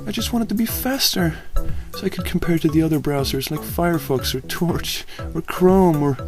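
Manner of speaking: high, soft apologetic muttering; small sorry pony voice; mildly teary mutter; tearful mutter. Acted. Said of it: "she muttered".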